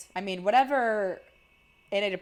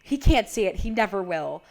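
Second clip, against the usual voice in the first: retold intense outburst; 6 dB louder than usual. Alex insisting about her dad who never listens, retold intense outburst. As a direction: retell her insistence with a sudden jump in volume. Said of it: "getting even more intense now".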